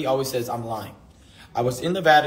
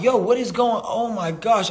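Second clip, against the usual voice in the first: higher, louder panicked "what is going on"; retold shock; 7 semitones higher, 3 dB louder than usual. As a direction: replay the moment the news hit, alarmed. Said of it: "And I'm like".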